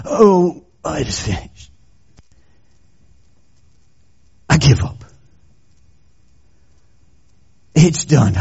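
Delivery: faint, fading last words; a hint of a dying man barely breathing; weak dying breath. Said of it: "with a little breath".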